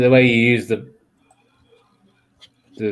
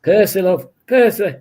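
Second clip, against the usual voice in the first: put-on raised, calling old northern lady; Phyllis impression; 4 semitones higher, 4 dB louder, slower than usual. Friend recalls Coronation Street, mock Phyllis calling. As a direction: call for Percy like Phyllis. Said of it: "Phyllis off Coronation Street".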